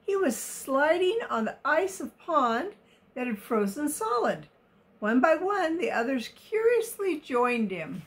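put-on reading a picture book to children; story narration. A narrator's reading. Reader telling of the elephants in the open, expressive story narration. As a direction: tell it expressively, every word carefully placed.

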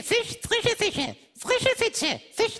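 slow tongue twister. Shown as a demonstration. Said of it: "musst du sagen".

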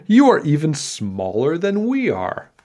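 high-pitched, scoffing king; amused king. A narrator's reading. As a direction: poke fun as the storybook king. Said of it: "The king laughed".

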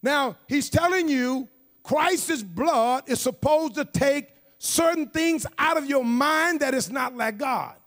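emphatic sermon, key words punched; forceful preaching. Real, not acted. Preacher tells congregation Christ came to purge sin, forceful preaching. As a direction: proclaim it to the whole church in measured phrases.

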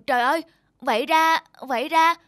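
high, loud stunned repeat; shocked realization. Acted. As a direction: gasp it out in disbelief. (sững sờ kinh ngạc)

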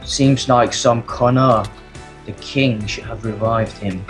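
lightly voiced blacksmith's wife writing her diary; diary reading voice. Reads diary as Miss Blacksmith.

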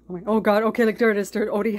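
startled outburst at the screen; real surprise. Real, not acted. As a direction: blurt it out as the shock hits. Reacting to Odie on screen.

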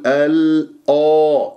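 الآ with dark, thickened hamza vowel; drawn-out الآ, the a turned towards aw; wrongly heavy hamza. Retold or imitated. Teacher imitates others' mistake, heavy hamza in الآ. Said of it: "يفخم هذه الهمزة".

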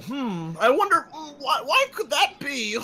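hammed-up wondering; sarcastic feigned curiosity; mock puzzlement. Feigned puzzlement, teasing waiting player.

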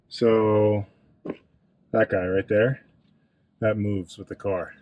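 straining while getting under the car; grunting with effort, words pushed out. Real, not acted. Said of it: "excuse the grunting and groaning as we get down here".

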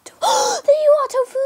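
breathless whispered relief, high; relieved gasp. Real, not acted. Finds lost cat, relieved.

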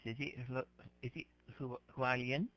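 halting, questioning tries at "Hualien"; unsure pronunciation. Real, not acted. Teacher asking student how to say a place name, unsure pronunciation. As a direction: stumble over the first syllable of "Hualien", then ask it. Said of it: "I have trouble pronouncing it".

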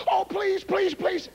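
high-pitched mock begging; excited pleading. Young lady begging to be the volunteer, mock excited. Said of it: "she was really excited".

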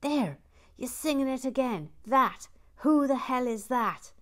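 high, loud indignant squeak; squeaking wife. Retold or imitated. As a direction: squeal it like the wife catching him out. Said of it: "And then she squeaks".

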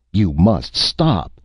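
high, loud, drawn-out plea; mild acted scream. A narrator's reading. The chief orders the fighters to stop, screaming. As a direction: cry out slowly, horrified, short of screaming. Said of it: "the chief screamed".

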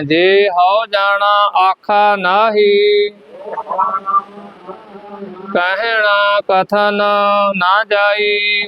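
measured chant-like reading with held endings; scripture recitation for repetition. Shown as a demonstration. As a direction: lead the class line by line, drawing out the last vowel.

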